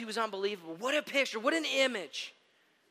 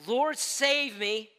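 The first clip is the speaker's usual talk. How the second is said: mild cry for help; 4 semitones higher, 4 dB louder, much slower than usual. Retold or imitated. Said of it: "he cried out".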